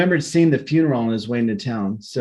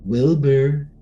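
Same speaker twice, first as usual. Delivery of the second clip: slow ghost call, growing louder; walking closer; slower than usual. A narrator's reading. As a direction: draw it out slowly as it climbs. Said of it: "voice getting louder and louder".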